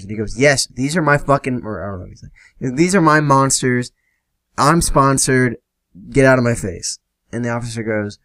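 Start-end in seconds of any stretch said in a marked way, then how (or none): 0.4-1.6 raised, higher defiant retort. Retold or imitated. Friend defiant to officer. 2.8-7.0 defiant retort. Retold or imitated. Friend repeats, defiant to officer.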